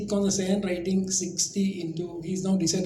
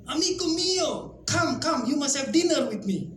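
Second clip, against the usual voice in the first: Italian Roman merchant; 7 semitones higher than usual. Retold or imitated. Roman merchant thanking the Indian merchant, gushing Italian-accented voice. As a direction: throw your arms open like a delighted Roman trader.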